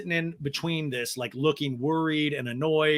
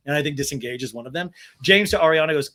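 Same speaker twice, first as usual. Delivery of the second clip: normal talking voice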